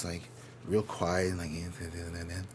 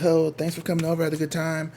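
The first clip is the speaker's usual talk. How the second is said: high, louder sweet-hostess voice; polite thanks; 9 semitones higher, 5 dB louder than usual. Retold or imitated. Texting a date after the visit, put-on sweetness. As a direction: put on a chirpy thank-you.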